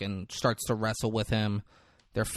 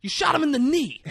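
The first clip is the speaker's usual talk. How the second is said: high, loud incredulous ranting; hammed-up disbelief, fast and pitched way up; mock exasperated yelling; 6 dB louder, faster than usual. Retold furious movie character.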